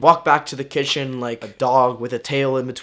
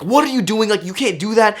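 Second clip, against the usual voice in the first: aunt yelling; 7 semitones higher, 3 dB louder than usual. Retold or imitated. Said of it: "my aunt starts to yell at me".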